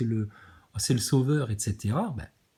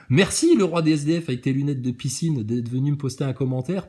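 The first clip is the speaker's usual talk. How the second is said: sarcastic thanks; 4 dB louder than usual. Real, not acted. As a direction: thank him with heavy sarcasm.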